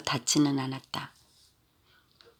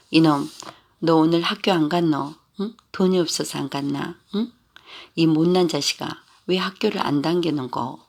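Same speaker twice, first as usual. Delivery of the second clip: retold scolding; 3 dB louder than usual. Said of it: "하고 마구 퍼부어댄다".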